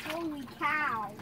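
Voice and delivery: soft, low and amazed; quiet awe. Real, not acted. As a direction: mutter it in disbelief. Repeated quietly.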